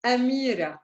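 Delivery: Amira opened with a glottal stop. Shown as a demonstration. Teacher giving another example of hamza, glottal stop onset. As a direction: start the A of Amira from a closed throat. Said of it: "Another one at the beginning of the word".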